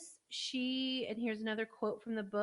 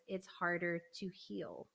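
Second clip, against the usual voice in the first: soft whisper; 3 semitones lower, 6 dB quieter, slower than usual. Retold or imitated. Quoting the book softly.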